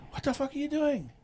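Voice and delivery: high, loud what-the-hell shout; incredulous yell. Retold or imitated. Coworker yelling at his partner, high and loud. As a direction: bark it in disbelief. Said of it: "The guy comes around and goes".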